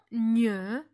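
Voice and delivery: "gne" mouillé, comme dans signal; "gne" en une seule consonne, tenue lentement; son gn mouillé. Shown as a demonstration. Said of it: "comme dans le mot signal". (« gne » palatal, comme dans signal)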